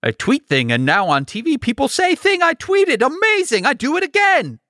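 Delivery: dumb caveman-style Trump voice, rising high on the praise; lightly voiced Trump cooing over his own tweets; mock Trump. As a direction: play a simple-minded Trump marvelling at himself. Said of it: "feedback loop has always been".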